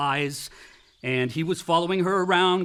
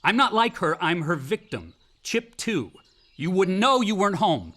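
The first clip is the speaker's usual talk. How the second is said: heated and louder, voice rising on the denials; angry outburst; 3 semitones higher, 4 dB louder than usual. Acted. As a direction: lash out at the father in hurt anger. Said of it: "George, calm down".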